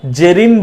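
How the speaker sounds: "জেরিন" as "Jerin", with a j and an e; wrong j sound. Shown as a demonstration. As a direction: mispronounce it "জেরিন", j instead of z. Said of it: "ভুল হবে".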